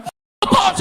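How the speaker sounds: high mock yell "F- the police."; hammed-up high yell; imitating a shouter. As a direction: parody the guy's shout. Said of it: "He was like".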